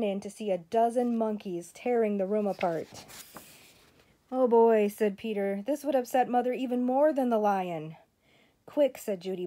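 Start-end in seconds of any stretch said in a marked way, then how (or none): 4.3-8.0 alarmed. Acted. Monkeys wrecking the kitchen. 8.7-9.0 urgent. Acted. Urging back to game.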